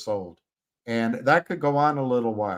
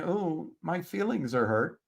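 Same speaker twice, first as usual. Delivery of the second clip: softer, mocking whine; mock hurt feelings; 4 semitones higher, 7 dB quieter than usual. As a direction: sarcastically imitate someone sulking. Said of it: "I'm not saying".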